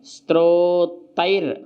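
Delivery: स्त्रोतैर with र after त, said slowly; slow, careful. Shown as a demonstration. Teacher modelling स्त्रोतैर slowly for students. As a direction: drag स्त्रोतैर out, र falling after त्रा. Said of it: "जो रा है ना जा के ऊपर लगा हुआ है".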